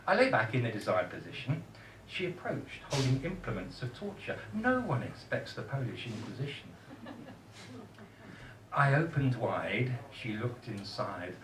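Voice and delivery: measured comic verse with pauses; poem recital. Acted.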